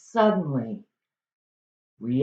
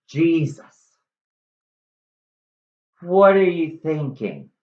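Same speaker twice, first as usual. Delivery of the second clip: shocked friar; 2 semitones higher than usual. Acted.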